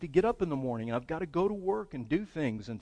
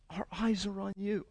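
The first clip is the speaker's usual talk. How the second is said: softer repeat; 4 semitones higher, 5 dB quieter than usual. Shown as a demonstration. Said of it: "I love that".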